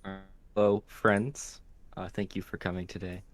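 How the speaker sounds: hushed, soft golf announcer voice; golf commentator. Acted. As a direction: murmur it like a golf broadcast. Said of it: "I'm trying to do, like, a golf voice".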